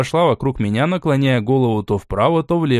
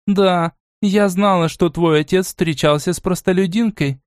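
a touch of plain irritation; a grandmother vexed at the question; annoyed; 6 semitones higher than usual. Acted. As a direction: admit it grudgingly. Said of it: "с явной досадой ответила бабушка".

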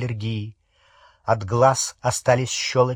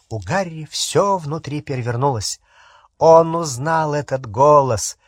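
ordinary delivery, nothing marked

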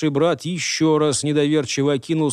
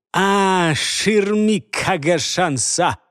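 loud curse; 4 semitones higher, much slower than usual. Acted. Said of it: "выругался во весь голос".

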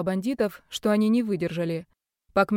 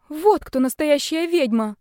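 much higher, slow awed exclaim; awed scared girl; 8 semitones higher, 5 dB louder, slower than usual. Acted. Scared girl sees the real witch fly, high awed gasp. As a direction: gasp it out in awe. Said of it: "прошептала испуганная девушка".

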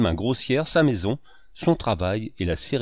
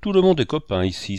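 higher-pitched, exasperated exclamation; crying out; 6 semitones higher, 4 dB louder than usual. A narrator's reading. Fauvarc getting up red and sweating among his guests, crying out. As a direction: call it out to everyone, worked up. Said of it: "s'écria Fauvarc en se relevant rouge".

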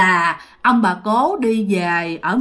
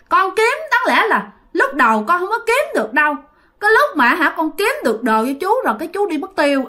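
put-on naive child voice; 4 semitones higher than usual. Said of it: "giọng của chú ngô nghê như một đứa con nít".

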